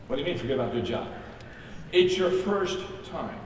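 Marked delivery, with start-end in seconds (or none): 0.1-1.1 incredulous newcomer. Retold or imitated.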